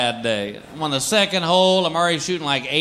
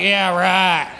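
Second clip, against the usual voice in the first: mocking friend; 4 semitones higher, slower than usual. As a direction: tease him with fake fear. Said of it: "He's like".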